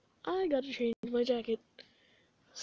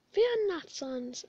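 Papyrus boast; slower than usual. Acted. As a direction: puff up like a proud skeleton hero.

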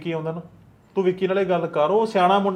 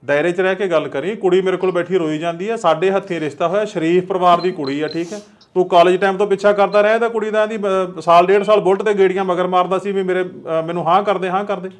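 louder, firm telling-off; stern scolding; 5 dB louder than usual. Acted. Village elder warns the caller over the phone, louder and stern. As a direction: lay down the law to the boy.

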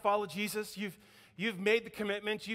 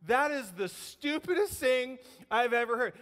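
mock disbelief; 4 semitones higher than usual. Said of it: "the rest of y'all are going".

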